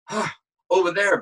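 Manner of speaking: breathy grunt then pushed line; ADR grunt added. Shown as a demonstration. Actor showing ADR breath, grunt and push. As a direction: add the effort grunt before the words. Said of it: "we would still have to go".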